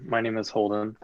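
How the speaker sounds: ordinary talk, nothing marked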